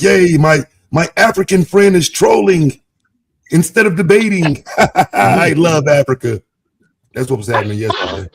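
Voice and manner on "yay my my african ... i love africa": bright sarcastic cheer, a bit louder and slower; mock cheer. Mocking chat cheering the African troll, sarcastic glee. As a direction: play the gushing fan, tongue in cheek.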